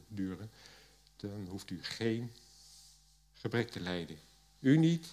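steady reading voice for the Bible text; scripture reading. Acted. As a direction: read the passage out to the congregation. Reads Genesis passage aloud. (voorlezen uit de Bijbel)

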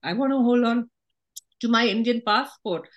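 squeaky from a sore throat. Real, not acted. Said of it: "I have a sore throat, so I'm sounding a little, like, squeaky".

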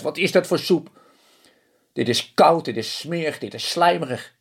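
a high little man spitting out foul soup; disgusted husband. Acted. Husband complains about cold soup.

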